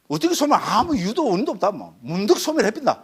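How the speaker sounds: high, swooping caricature of an opinion; mock dismissive answer. Lecturer parodying monks' view of cessation, high mocking voice. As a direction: toss out the absurd answer in a high voice.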